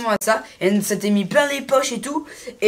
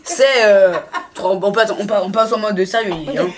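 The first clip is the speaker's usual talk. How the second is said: laughing; 2 semitones lower than usual. Real, not acted. Tries to get serious, laughing.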